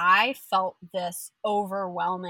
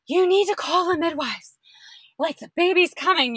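higher, breathless whispered urgency; urgent whisper; 10 semitones higher, 7 dB louder than usual. Retold or imitated. Telling her husband to call the midwives, whispered. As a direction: hiss it out urgently.

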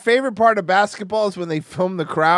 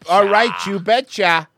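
mock Midwest accent; 3 dB louder, slower than usual. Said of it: "talk like we're in the Midwest".

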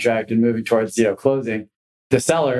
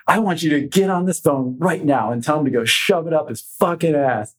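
higher, hammed-up angry berating; furious cussing out; 5 semitones higher than usual. Manager berating rookie agent behind a closed door, furious. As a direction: tear into the rookie like a furious boss.

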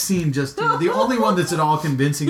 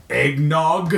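mock-grave, purposeful declaration; utter conviction. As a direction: proclaim it like a momentous word. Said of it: "with utter conviction and purpose".

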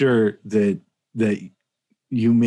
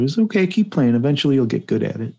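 falsely encouraging, higher then quick; subtle dig; 4 semitones higher, faster than usual. Retold or imitated. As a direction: slip in a dig disguised as comfort. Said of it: "real subtly tell her".

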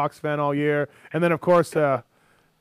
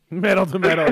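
echoing the Scott voice; 4 semitones higher, 6 dB louder than usual. Retold or imitated. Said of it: "echoing the Scott voice".

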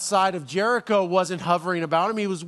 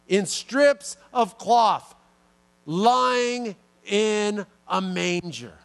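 slow, drawn-out booming angel voice with big pauses; milk the suspense like a grand heavenly herald; dramatic angel; much slower than usual. Pretend. Angel teasing the shepherds with the sign, slow and dramatic. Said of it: "if I was the angel, that's how I'd do it".

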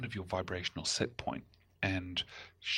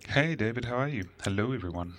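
booming announcer greeting; big radio DJ hello; 4 semitones higher, 6 dB louder, faster than usual. Pretend. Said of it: "It's my radio voice".

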